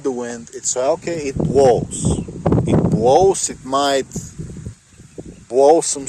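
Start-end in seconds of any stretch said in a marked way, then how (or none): 2.7-3.5 squeaky. Real, not acted. Playful pitch jump.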